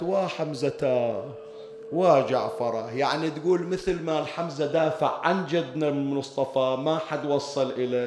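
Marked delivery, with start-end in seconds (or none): 0.0-2.9 mock lament. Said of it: "صاحت".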